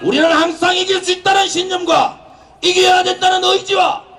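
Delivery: fiery rally cry, full voice; roaring rallying speech. Real, not acted. Rally speech rising to climax.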